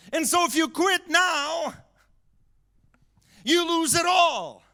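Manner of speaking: high, emphatic sermon delivery; preaching exhortation. Real, not acted.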